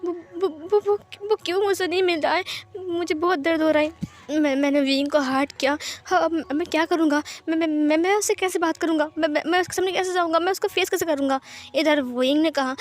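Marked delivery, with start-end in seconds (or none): 0.0-11.4 high, fast, stammering pleas; spilling out his panic in a rush; desperate longing. Acted. Wang Ji, aching to see Wing, pleads in high stammering bursts.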